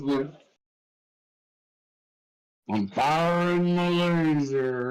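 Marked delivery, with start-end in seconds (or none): 2.7-4.9 slow robotic TTS voice; flat synthetic read. Pretend. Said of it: "Oh, listen to this".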